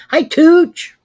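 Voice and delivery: high, loud holler of greeting; big high-pitched hello; calling out hello. Real, not acted. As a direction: shout hi to a friend who just turned up. Greeting a viewer who arrives.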